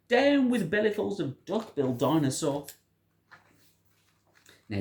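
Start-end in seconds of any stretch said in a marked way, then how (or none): 0.1-2.7 hooting. A narrator's reading. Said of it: "he hooted".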